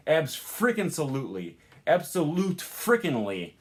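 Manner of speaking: Abs frickin' salutely and absolute frickin'ly, infix in the wrong spot; wrong infix placement. Shown as a demonstration. Teacher demos ungrammatical infixes. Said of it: "just doesn't work".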